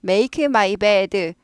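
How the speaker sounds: 단어마다 끊어서 천천히 make my bed; staccato. Shown as a demonstration. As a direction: make my bed, very slow and word by word. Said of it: "초보입니다". (초보식 스타카토 발음)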